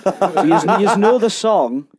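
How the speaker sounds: amused, laughing as you speak. Real, not acted. Laughing at the players' ignorance.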